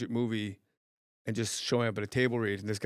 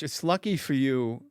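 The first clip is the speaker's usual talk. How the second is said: slow, lightly impersonated movie line; Christopher Walken. Acted. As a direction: let the words fall like a song. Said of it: "just the way the words fall".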